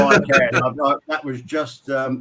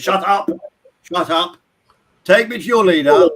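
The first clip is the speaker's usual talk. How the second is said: higher-pitched, hammed-up impatient order; mock outburst building to a louder demand; irritated alien captain; 6 semitones higher, 6 dB louder than usual. Captain silencing his ensign, then addressing the pump, mock-irritated. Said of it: "The captain alien says".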